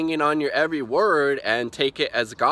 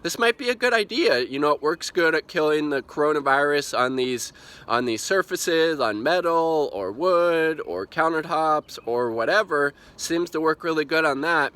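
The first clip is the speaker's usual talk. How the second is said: Trump thinking aloud; 3 semitones higher than usual. Retold or imitated. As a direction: imitate someone pleased by his own idea. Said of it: "He actually thought like this".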